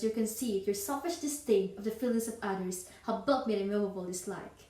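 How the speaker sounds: firm, mildly indignant refusal; Elizabeth Bennet. Acted. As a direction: turn the proposal down for good, with contained disdain. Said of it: "Elizabeth Bennet rejected Darcy's proposal".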